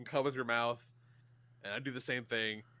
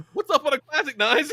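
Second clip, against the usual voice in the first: much higher and louder, pumped show opener; hyped intro; 12 dB louder than usual. Real, not acted. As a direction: kick off the segment with full energy. Host launching the show segment.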